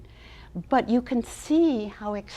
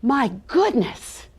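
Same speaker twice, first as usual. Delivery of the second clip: surprised; 3 semitones higher, 6 dB louder, slower than usual. Acted. Peddler finds caps missing.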